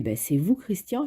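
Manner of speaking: lightly acted surprise, pitch jumping up on Christian; surprised. Friar, surprised at handsome Christian, asks in light mock surprise. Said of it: "il est surpris".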